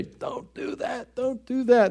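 high, scolding parent warning. Retold or imitated. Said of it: "It's like your parents say".

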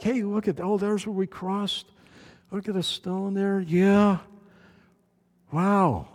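soft, wondering tourist voice; hushed awe. Retold or imitated. Israelites pointing out the crossing stones, awed hush.

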